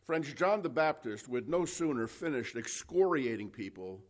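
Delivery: ordinary talk, nothing marked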